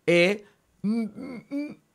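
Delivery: high "e" stalling into hummed "mm, mm, mm"; unpronounceable cluster attempt. Shown as a demonstration. Teacher showing a cluster won't sound, "e, mm, mm, mm" stuck on the hum. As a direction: try and fail to get past "e, mm, mm, mm". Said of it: "porque eso no suena".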